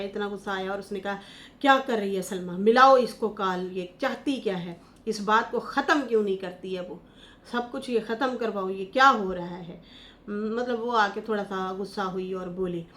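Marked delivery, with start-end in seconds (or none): 1.6-9.8 mild retold anger, louder on the call; half-acted outburst at Salma; imitating angry aunt. Aunt Rubina scolds about Salma, mock angry. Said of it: "उसे इतना गुस्सा आया".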